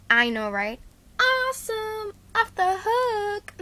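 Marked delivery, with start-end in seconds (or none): 1.2-3.5 put-on slangy cool-kid voice. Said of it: "Let's stop talking like this".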